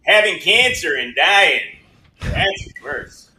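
slow, drawn-out comedian impression; Norm Macdonald. Guest imitating a late comedian to the hosts, slow impression. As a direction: deliver the punchline slowly, as an imitation. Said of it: "it's not a bad norm".

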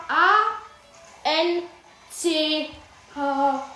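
letter by letter, slow; spelling it out. Shown as a demonstration. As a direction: spell each letter separately for listeners. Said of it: "ich buchstabier's euch mal".

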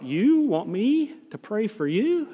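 slow, puzzled disbelief, rising on "you"; incredulous question. Retold or imitated. Sick young man questions his hero's request, slowly incredulous. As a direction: draw it out as a wondering, retold question. Retold astonishment at being asked.

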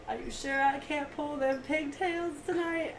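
slow, leering mock creep voice; creepy drawl. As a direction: play the lurking stranger, slowly. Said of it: "he literally goes".

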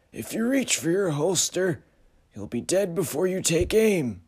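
high, loud cold threat; uncanny figure warning calmly; high menacing voice. Acted. Frederick threatens stranger.

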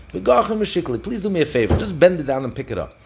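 pleading. Acted. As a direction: plead like an embarrassed ruler saving face. Embarrassed Caesar pleading with boy.

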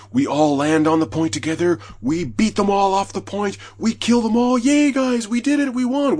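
a hammed-up victory whoop; mock celebration. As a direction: play the triumphant teammate. Acting out excited team celebration.

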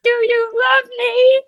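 mild high-voiced lady; voiced woman character. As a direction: lightly play a woman. Plays Nicole Brown again.

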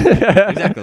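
laughing while speaking. Real, not acted. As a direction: chuckle through it. Laughing at the retold reaction.

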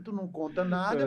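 usual speaking voice

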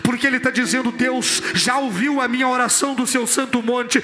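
forceful, driving preaching; pregação inflamada. Real, not acted. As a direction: build toward a congregational response. (pregação vigorosa, em crescendo)

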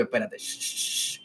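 pidiendo silencio. Retold or imitated. Manda callar en el ascensor.

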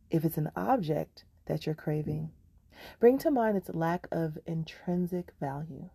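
measured meditation voice with long pauses between phrases; unhurried meditation teacher, leaving room to breathe; guided meditation. Acted. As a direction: guide them gently, phrase by phrase.

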